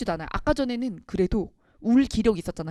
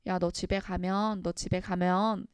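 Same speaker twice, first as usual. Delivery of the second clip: drawn-out, softer delivery; slow, deliberate quote; 3 semitones lower, 7 dB quieter, slower than usual. Acted. Teacher quoting the brother's hint about going home, slow and soft. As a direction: say it slowly and quietly, lingering. Acts brother's foreshadowing line, slowly.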